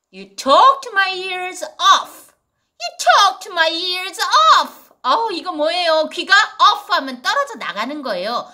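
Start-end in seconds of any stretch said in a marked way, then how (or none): 0.1-2.3 slow, stress on talked; slow model reading. Shown as a demonstration. 2.8-4.9 slow repeat, talked leaned on; again slowly, fading on off; repeat model reading. Shown as a demonstration.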